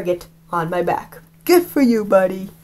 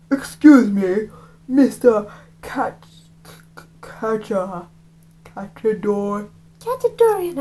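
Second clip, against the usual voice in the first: corrected voice; slower than usual. Acted. Reader redoes Kachadorian in the right voice. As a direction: fumble the name, squeak the end. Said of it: "that was the wrong accent".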